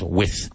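"with" for width, no D heard; teacher's model of width sounding like "with"; spoken as "with". Shown as a demonstration. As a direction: go from short I straight to TH in "with". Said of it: "Pronounced with".

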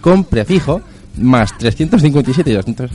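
mock sexy ad read. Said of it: "en plan sexual".

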